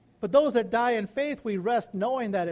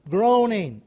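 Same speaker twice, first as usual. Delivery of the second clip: groaning demo; 4 dB louder than usual. Shown as a demonstration. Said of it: "speaking or acting with deep feeling".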